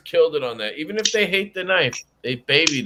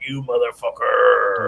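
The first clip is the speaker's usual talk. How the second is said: muttered curse; 7 semitones lower, slower than usual. Retold or imitated. Retold cursing at knife.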